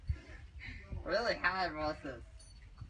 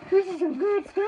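high squeaky helium voice, louder; 11 semitones higher, 9 dB louder than usual. Real, not acted. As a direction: chipmunk voice from helium. Helium balloon game.

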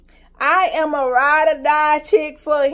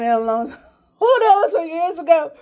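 tearful; 4 dB louder than usual. Real, not acted. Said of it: "ooh, it makes me emotional".

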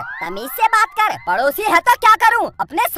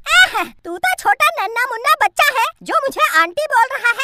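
angry woman; 5 semitones higher than usual. Acted. Woman angry at being called aunty.

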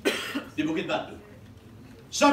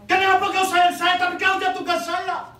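protesting shout; 9 semitones higher, 6 dB louder than usual. Acted. Anak memprotes ayahnya.

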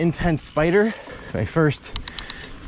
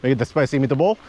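Uncle Enrico. Retold or imitated. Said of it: "He called my mom Brun".

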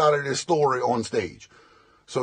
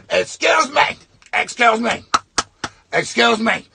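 calling for attention. Retold or imitated. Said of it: "a rapper looking dude goes up".

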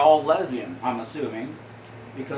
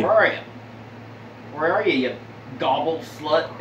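calling out. Acted. Calling out to hidden turkey.

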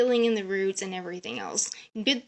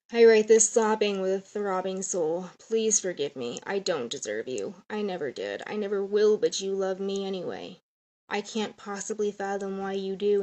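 reading a letter. Acted. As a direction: read it tenderly to your son. Reads her letter to son.

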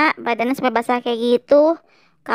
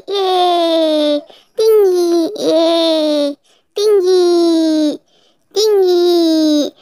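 excited cheer; 2 semitones higher, 4 dB louder, much slower than usual. Acted. Child bouncing on balloon castle cheers excitedly.

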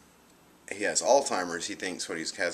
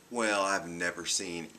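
a hint of a flat, dismissive doctor; 6 dB quieter than usual. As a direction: drag it out, bored and unmoved. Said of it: "He flat looks at me and goes".

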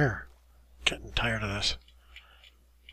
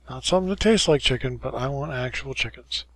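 exasperated; 5 dB louder than usual. Real, not acted. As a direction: blurt it out, fed up. Exasperated clarification.

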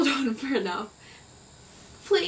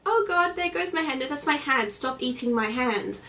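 mock panic; 5 semitones higher than usual. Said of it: "you'd be like".

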